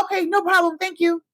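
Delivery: meek acceptance. Retold or imitated. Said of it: "y'all gonna be like".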